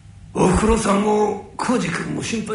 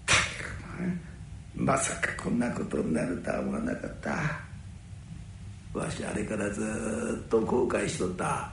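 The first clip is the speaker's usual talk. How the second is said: regretful; 10 semitones lower, 7 dB quieter than usual. Acted. Old man confesses his regret.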